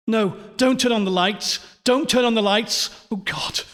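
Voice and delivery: high, rushed pleading building to a shriek; shrieking in panic. A narrator's reading. Louise begging them to leave lights off, shrieking. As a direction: beg frantically, climbing to a final cry. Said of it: "Louise was shrieking now".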